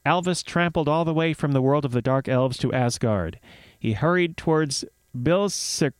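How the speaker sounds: measured myth storytelling; story narration. Acted. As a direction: read it like a fireside tale.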